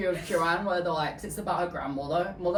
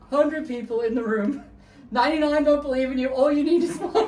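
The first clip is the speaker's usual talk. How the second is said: loud, high, faster hammed-up pep talk; mock Lady Gaga; 7 semitones higher, 5 dB louder than usual. Friend mocks Lady Gaga's interview catchphrase, loud hammed-up. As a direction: belt it out like a cheesy inspirational speech.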